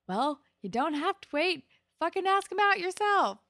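high, loud exasperated push; exasperated Emma. Retold or imitated. Emma telling Manny to just ask him, exasperated. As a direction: squeal it at her like a fed-up friend.

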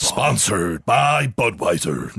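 slow, drawn-out sponsor announcement; mock announcer. Host fakes a podcast sponsor read, mock announcer. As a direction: announce the sponsor with hammed-up weight.

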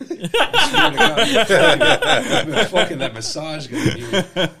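high, loud laughing shout. Real, not acted. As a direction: yell it through laughter.

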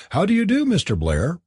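friendly greeting, starting high; cordial. A narrator's reading. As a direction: greet a new acquaintance cordially. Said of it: "said Josephine cordially".

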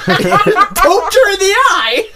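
words squeezed out through laughter, slow; can barely talk for laughing. Real, not acted. Friends cracking up.

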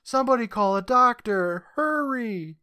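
high-pitched acted cry for help; mock yelling. Mom runs up to fallen daughter, acted yelling. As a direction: play a panicked mother calling out.

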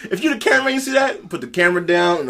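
high, loud panicked shouting over wind; windblown reporter shouting. Retold or imitated. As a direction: yell like a reporter blown away by a storm. Reporter caught in hurricane wind.

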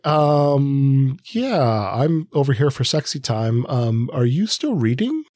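mildly exasperated, waiting to be noticed; impatient companion. Retold or imitated. A lightly voiced friend calling the reader away from books. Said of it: "be like".

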